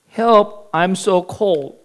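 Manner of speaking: weaker, miserable plea; a touch of a shivering whine. Acted. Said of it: "shivering and miserable".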